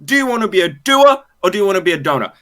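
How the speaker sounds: a drill sergeant hammering home a lesson; drill sergeant pep talk. Acted. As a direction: drill the recruit hard and quick. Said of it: "the drill sergeant snake".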